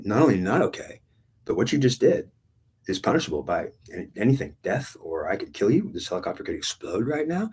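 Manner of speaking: stern, mildly heated reprimand; retold anger. God telling the gunner off, stern retold anger. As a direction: lay down the law, retelling an angry rebuke. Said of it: "literally pissed".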